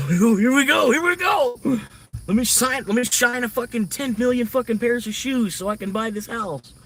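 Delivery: high, loud hammed-up cheer, laughing into it; mock-gleeful shout about shining shoes for a house; mock greedy excitement. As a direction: play the greedy hustler hyped to grind. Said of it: "'Cause I'm a greedy Irish bastard".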